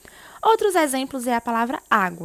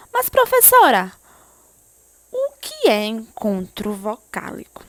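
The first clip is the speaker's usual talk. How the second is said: curious student; 7 dB louder than usual. Acted. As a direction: play the puzzled student. Teacher voices a student's question.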